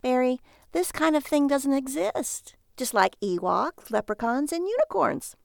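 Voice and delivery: slow, spelled-out list of examples; patronizing wife; exasperated explaining. A narrator's reading. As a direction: explain as if to a simpleton, pitch jumping at the end. Wife explains it does not exist.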